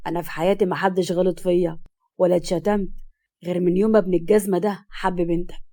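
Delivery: a low, lightly acted character voice; grumbling a little, pitched low; a hint of aggrieved older relative; lightly voiced Rabie.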